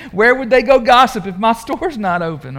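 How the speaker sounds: laughing through the mock excuse. Preacher voicing storekeeper's excuse, laughing. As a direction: chuckle as the storekeeper's joke lands.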